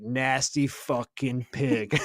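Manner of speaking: slow, drawn-out disgusted growl; a drill instructor sneering at a recruit, slow and disgusted; mock disgusted drill instructor. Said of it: "And he's like".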